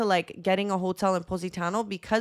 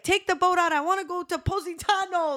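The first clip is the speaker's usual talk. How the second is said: imitating drunk friend; 9 semitones higher than usual. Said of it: "She's like".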